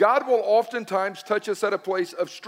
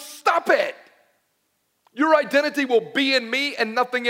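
acted sharp rebuke; 3 semitones higher than usual. God rebuking someone's misplaced identity, sharp command. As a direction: cut in as God, raised and commanding.

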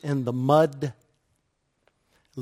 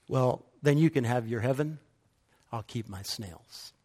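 dismissive crane. Acted.

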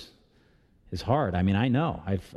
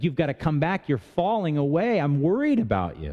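worried plea; 5 semitones higher than usual. Acted. Pastor voices worried plea to backslider.

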